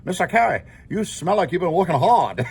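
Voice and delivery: put-on girl's Asian accent, dropped r's; imitated Asian accent. Student politely telling teacher he smells, imitated Asian accent. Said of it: "Her accent was really cute".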